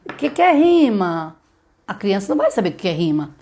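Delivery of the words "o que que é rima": put-on the wrong way to ask a child, higher; teacher demo of a bad question, voice raised; mock abstract question, raised and a bit louder. Shown as a demonstration. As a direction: pitch up, asking like a dry quiz. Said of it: "Você não consegue assim".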